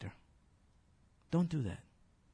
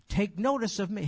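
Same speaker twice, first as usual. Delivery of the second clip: louder, higher plea for notice; insistent calling; 4 semitones higher, 4 dB louder than usual. Retold or imitated. Jeremiah waving at God, louder insistent call. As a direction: demand to be noticed. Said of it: "So he's waving to God".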